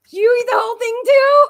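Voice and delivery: loud, high-pitched delighted question; excited surprise. Real, not acted. Host finding Kim eats whole pizzas too, excited surprise. Delighted at friend's shared habit.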